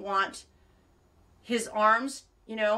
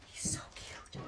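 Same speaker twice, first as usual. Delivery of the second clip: hushed, whispery gush; gushing coo; 12 dB quieter, slower than usual. Real, not acted. Woman cooing over her cute pet, hushed gush. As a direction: coo it under your breath.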